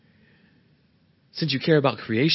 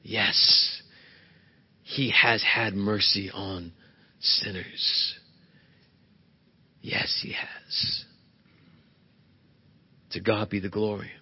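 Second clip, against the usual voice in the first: hushed whisper; 5 semitones lower, 6 dB quieter, slower than usual. Real, not acted. Preacher closes in hushed awe.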